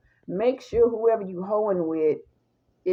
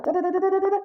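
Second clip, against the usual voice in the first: teeth chatter; 9 semitones higher, much faster than usual. Retold or imitated. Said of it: "you can hear his teeth chatter".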